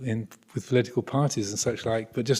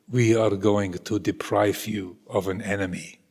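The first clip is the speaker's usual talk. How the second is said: put-on Russian accent; 3 semitones lower than usual. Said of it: "forgive my bad Russian accent".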